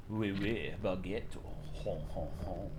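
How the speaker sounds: soft hammed-up French cliché; jokey French accent muttered low; mock French accent. Streamer jokes in French accent, soft mock French. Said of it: "in a French accent".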